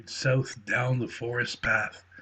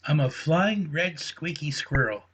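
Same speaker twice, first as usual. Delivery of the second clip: squeaky squirrel voice; 4 semitones higher than usual. Acted. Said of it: "said the voice from the trees".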